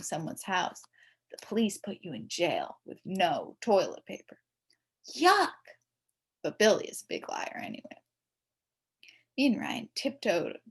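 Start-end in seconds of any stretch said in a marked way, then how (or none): 5.1-5.5 disgusted yuck. A narrator's reading. Jail without toilet paper.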